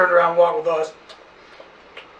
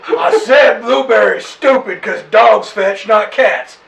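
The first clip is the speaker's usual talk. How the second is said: repeating louder through a mouthful; louder, slower, chewing while talking; mouth full; 6 semitones higher, 9 dB louder, slower than usual. Real, not acted. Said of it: "Your mouth is full".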